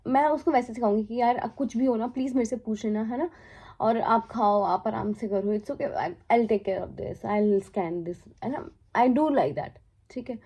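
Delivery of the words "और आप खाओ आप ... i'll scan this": gentle crew mate calming a nervous first-timer, tender; like teaching a baby. Pretend. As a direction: soothe a nervous new colleague. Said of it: "किसी baby को सिखाते ना".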